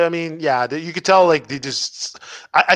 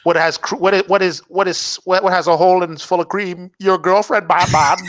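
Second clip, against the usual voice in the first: higher riddling villain voice; mock Riddler; 3 semitones higher than usual. Parodying the Riddler to friends, a bit higher. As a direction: tease Batman with a riddle.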